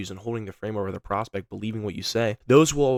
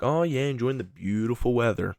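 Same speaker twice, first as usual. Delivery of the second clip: playful tone. Shown as a demonstration. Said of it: "Some playful tone".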